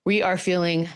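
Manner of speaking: blocked nose voice; talking through a stuffy nose. Real, not acted. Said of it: "Sound a little stuffy".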